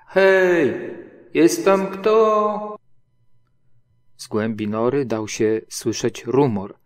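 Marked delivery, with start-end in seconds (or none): 0.1-2.8 high, loud slow call. A narrator's reading. Pooh calling into the rabbit hole, loud and high. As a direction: shout down into the burrow. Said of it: "zaczął wołać".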